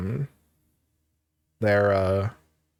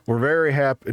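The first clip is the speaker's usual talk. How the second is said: put-on light Southern father accent; 3 semitones higher than usual. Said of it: "that's close enough".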